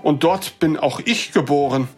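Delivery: put-on older gentleman. Elderly visitor tells the dwarf where he lives, measured. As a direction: answer politely as the old visitor. Older man Hellwig explains origin.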